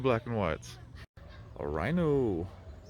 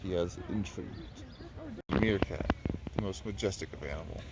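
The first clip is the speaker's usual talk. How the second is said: nature documentary; 3 semitones lower, 5 dB quieter than usual. Pretend. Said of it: "Say that about every animal".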